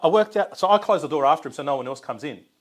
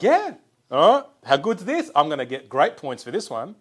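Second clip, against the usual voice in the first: excited star; 3 semitones higher, 6 dB louder than usual. Retold or imitated. Imitating the star's delight.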